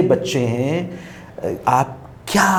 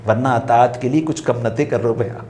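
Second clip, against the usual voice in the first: recited verse; 3 semitones lower than usual. Shown as a demonstration. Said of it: "پہلا مصرع نہیں پڑھ رہا میں".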